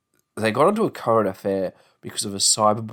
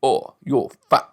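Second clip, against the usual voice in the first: a hint of a sneering troll, slow; lightly mocking jab; mock taunt; 4 semitones higher, 4 dB louder, slower than usual. Troll jeering at a gym-goer, mild mock taunt. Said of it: "you can't then say".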